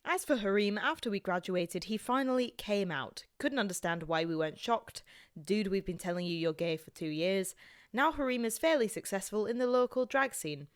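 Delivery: story read in an attempted Scottish accent. Reading a friend's story on request, Scottish accent. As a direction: read it out as a Scot. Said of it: "Can you do Scottish?".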